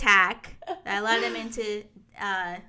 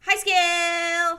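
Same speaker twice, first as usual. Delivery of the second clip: drawn-out greeting; 8 semitones higher, 7 dB louder, much slower than usual. Pretend. Playful greeting.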